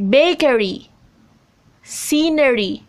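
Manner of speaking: BAkery, SCEnery, opening syllable stressed; stress before suffix. Shown as a demonstration. Teacher reads examples bakery, scenery, each stressed on the first syllable. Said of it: "on a syllable right before the suffix".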